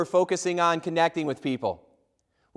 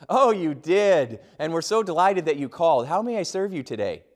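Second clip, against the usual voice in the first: sweet agent. Retold or imitated. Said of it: "like I'm their lost best friend".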